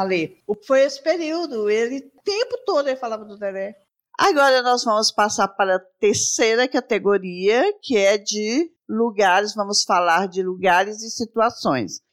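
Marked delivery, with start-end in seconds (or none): 4.2-12.0 slow, measured presenter delivery; segment announcement. Acted. Host introducing the third category, slow presenter voice. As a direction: announce each item clearly, with drawn-out pauses.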